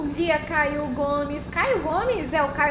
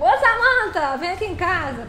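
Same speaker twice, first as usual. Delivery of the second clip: mock invitation; 3 semitones higher, 5 dB louder than usual. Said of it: "Eu posso falar assim, tipo".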